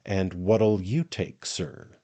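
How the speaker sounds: slow, mildly emphatic offer of a drink. A narrator's reading. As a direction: put slow weight on "what'll you take". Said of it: "and said emphatically".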